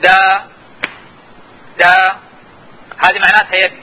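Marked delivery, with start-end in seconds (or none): 0.0-2.0 دا sung on one held, steady pitch; Mandarin tone demo. Shown as a demonstration. Teacher demonstrating a Mandarin tone to students, held level pitch. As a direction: hold دا level like a single note. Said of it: "شوفوا معي شلون أنا، أعطي طبقة الصوت".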